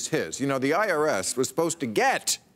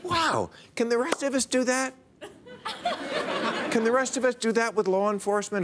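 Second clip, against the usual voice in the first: high-pitched feigned wonder; mock amazement; 8 semitones higher than usual. Comedian marvels at investigating the investigators, mock amazement. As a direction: act astonished, voice lifted high.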